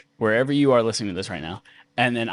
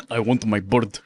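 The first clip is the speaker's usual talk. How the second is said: mock villain whine; 2 semitones lower than usual. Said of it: "what's his face being like".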